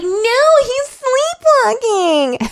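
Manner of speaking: high, drawn-out wail; hammed-up desperate whine; pleading protest. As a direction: wail it in defense of a boyfriend. Kit desperately defends Gabe.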